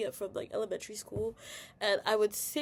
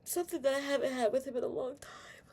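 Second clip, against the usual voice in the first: whispered tenderness; 3 semitones higher than usual. Real, not acted. Telling viewers about her dad, in a whisper. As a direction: hush it like a secret.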